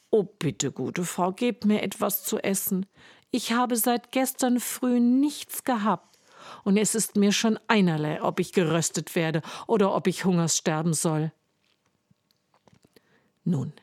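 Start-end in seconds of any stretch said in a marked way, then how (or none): 0.1-11.3 put-on pleading boy, rushing faster at the end; begging boy. Hungry Hans begging the giant's wife, quickening plea. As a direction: beg for food, then hurry on.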